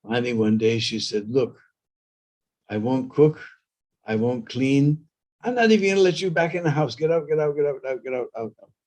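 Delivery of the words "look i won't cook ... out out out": scolding wife whose final outs trail off; wife throwing him out. Acted. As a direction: chase him out of the house in mock fury. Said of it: "tongue was like a razor blade".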